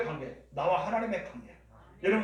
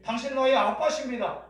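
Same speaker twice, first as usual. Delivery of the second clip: high, raised declaration to a father; proclamation; 5 semitones higher, 4 dB louder than usual. Acted. Preacher models calling God Dad, proclaiming. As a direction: declare it out loud, pitched up. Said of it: "선포하는 것".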